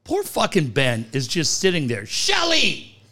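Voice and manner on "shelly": calling out. Pretend.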